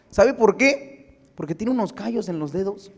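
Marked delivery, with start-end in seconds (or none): 0.1-1.3 pregunta lenta. Acted. Pregunta retórica enfática.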